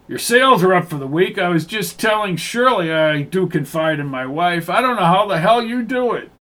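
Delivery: lightly voiced warehouse manager. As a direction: chat up a salesman pal, lightly in character.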